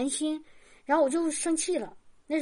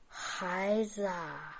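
low, slow, drawn-out call, softer than her own talk; voice like a bell; 6 semitones lower, 8 dB quieter, much slower than usual. Retold or imitated. God calls her in the night, low, slow and solemn. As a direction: call each word out slowly and lower, like a distant bell. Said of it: "但那个声音就说了".

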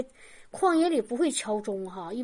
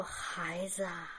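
low, slow, drawn-out call, softer than her own talk; voice like a bell; 7 semitones lower, 12 dB quieter, much slower than usual. Retold or imitated. God calls her in the night, low, slow and solemn. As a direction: call each word out slowly and lower, like a distant bell. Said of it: "带着那种慈爱和关心".

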